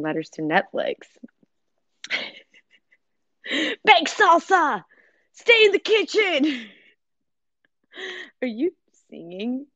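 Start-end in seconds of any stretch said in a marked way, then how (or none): 3.5-6.7 mock shouted command.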